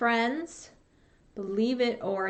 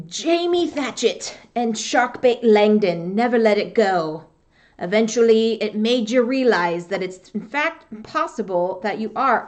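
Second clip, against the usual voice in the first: louder rough pirate read; 5 dB louder than usual. Shown as a demonstration. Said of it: "I should not be reading this as a pirate voice".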